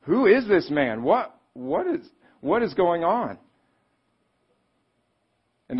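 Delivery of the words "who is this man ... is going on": high, loud, slow stunned question; frightened disciples asking each other about Jesus, awed and afraid; terrified wonder. Retold or imitated. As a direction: ask it in awe and fear. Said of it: "they were terrified of Jesus because they're like".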